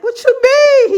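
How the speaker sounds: high, laughing what you mean; laughing disbelief. Retold or imitated. Asking about the prayer ritual, laughing and squealing high. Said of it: "I'm like".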